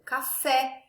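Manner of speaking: "café" with the weight on final FÉ; stress on last syllable. Shown as a demonstration. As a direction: land firmly on FÉ in "café". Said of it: "na última sílaba da palavra".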